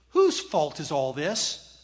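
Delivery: loud, slow, weighty question; imitated host pressing for blame; pointed blame question. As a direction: demand it loudly, word by word.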